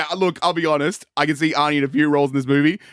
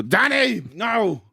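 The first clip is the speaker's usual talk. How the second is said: shout at Danny; 9 semitones higher, much slower than usual. Acted.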